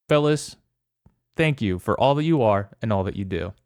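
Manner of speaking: measured, mock-solemn recital of a tribute; prepared tribute reading. Host reads a prepared apology to co-hosts, solemn tribute. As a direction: read it out like a heartfelt toast. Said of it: "read a little something I have prepared".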